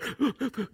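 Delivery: quick, quiet catching breaths; mock sobbing gasps. Preacher imitates a crying kid in the bedroom, mock sobbing gasps. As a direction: imitate a child trying to catch their breath. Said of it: "doing that cry".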